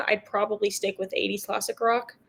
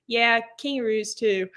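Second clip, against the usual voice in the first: put-on Aussie accent. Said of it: "and he said".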